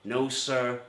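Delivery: a hint of the rumpled detective, slow and musing; lightly voiced Columbo slowly unpicking the alibi; Columbo impression. Detective cornering the suspect with baguette logic, mild Columbo drawl. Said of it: "That's the end of my Columbo episode".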